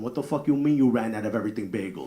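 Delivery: mock New Jersey Italian accent; New Jersey wife. Wife at a bagel shop, mock New Jersey indignation. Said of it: "That's how she speaks".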